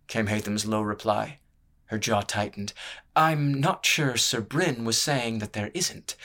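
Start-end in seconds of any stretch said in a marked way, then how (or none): 3.1-6.1 slow, higher, tightly controlled; each word measured out, bristling politely; stiffly. Acted. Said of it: "she said stiffly".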